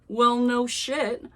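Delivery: high, slow, hammed-up frantic questions. A narrator's reading. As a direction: play the panicked narrator, pitched high. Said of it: "I said frantically".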